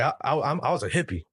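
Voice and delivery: lightly imitated halting speech; Barry Warner. Imitating the radio man admitting his past, lightly mimicked. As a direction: stammer into it, a hint of impersonation. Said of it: "he speaks like this".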